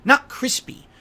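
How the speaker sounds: scolding, hit the word "not"; stress on NOT. Shown as a demonstration. Mocking the other streamer's word, with NOT hammered. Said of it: "The word you're looking for is crisp".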